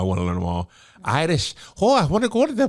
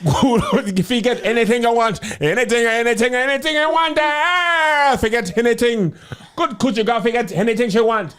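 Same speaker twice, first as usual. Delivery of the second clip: put-on Jamaican accent. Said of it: "the white dude on Jamaica".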